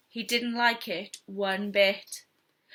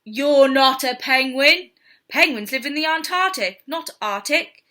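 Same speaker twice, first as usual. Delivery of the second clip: loud correction; 3 semitones higher, 7 dB louder than usual. Acted. Man scolds cub.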